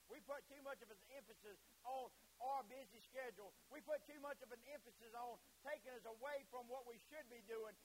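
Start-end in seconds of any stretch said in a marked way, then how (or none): 0.1-5.4 raised preacher's repetition; preaching emphasis. Real, not acted. Preacher faulting our busy schedule, emphatic. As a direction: drive the point home to the pews. Louder repeat of the confession.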